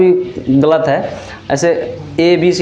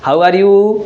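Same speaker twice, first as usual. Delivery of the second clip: lively teacher question; 3 semitones higher, 3 dB louder, much slower than usual. Shown as a demonstration. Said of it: "बच्चे बीच में बोलते रहेंगे".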